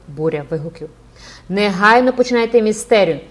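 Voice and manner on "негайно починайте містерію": loud, raised-pitch demand; crowd shouting. A narrator's reading. The crowd demands the mystery play at once, shouting. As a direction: shout it like an impatient mob. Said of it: "кричала юрба".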